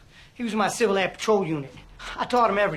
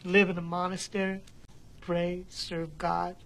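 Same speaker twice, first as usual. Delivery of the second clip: slow, softer, defeated confession; quiet despair; 3 semitones lower, 6 dB quieter than usual. Acted. Defrocked priest confessing to the DA, slow broken quiet. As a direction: let each phrase fall away in grief. Broken man recalls lost vocation.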